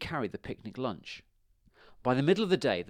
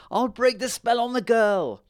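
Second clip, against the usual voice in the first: high, loud, frantic witch voice; shrill-pitched, raised-voice surrender; witch crying out; 13 semitones higher, 8 dB louder than usual. A narrator's reading. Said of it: "she cried".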